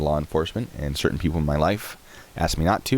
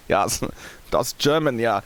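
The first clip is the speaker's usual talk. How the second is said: playful, hammed-up German accent; mock German accent; 6 semitones higher than usual. Shown as a demonstration. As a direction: show off a joke German accent. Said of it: "that's the accent".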